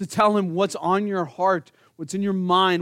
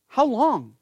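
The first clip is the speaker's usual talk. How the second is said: raised, anguished cry to God; higher heartfelt plea; earnest lament; 7 semitones higher, 4 dB louder than usual. Acted. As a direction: plead it from the soul.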